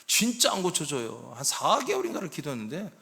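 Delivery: normal talking voice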